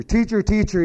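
high, eager call to the teacher; a boy bursting with news; excited shout of teacher; excited kid. Retold or imitated. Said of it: "boy, he was excited".

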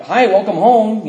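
high, loud, drawn-out hello; mock-innocent greeting. Son greeting his accusing mom, high mock-innocent welcome.

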